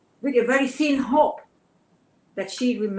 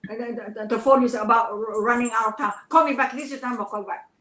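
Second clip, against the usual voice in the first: urgent plea; 2 semitones higher, faster than usual. Retold or imitated. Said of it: "I said".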